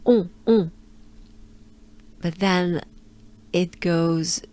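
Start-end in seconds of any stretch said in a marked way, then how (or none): 0.1-0.7 un played with, nasal and loud; playful nasal un. Shown as a demonstration. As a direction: have fun with the nasal un. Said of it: "it's really that".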